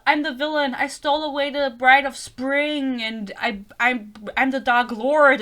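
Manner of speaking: lightly hammed-up dark lord; mocking Rhys. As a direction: parody a self-important villain's speech. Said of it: "no one talks like this".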